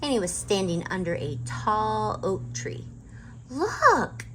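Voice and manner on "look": high, loud look; excited. A narrator's reading. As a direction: point it out with excitement. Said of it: "she said".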